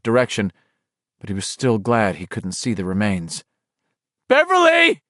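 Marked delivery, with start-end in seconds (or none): 4.3-5.0 much higher and louder shout. A narrator's reading. Ben calling for Beverly, loud shout. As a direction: call across the dark. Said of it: "Ben shouted".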